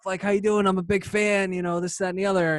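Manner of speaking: high-pitched gushing retold introduction; eager fan greeting. Fan introducing himself to a famous guitarist, eagerly gushing.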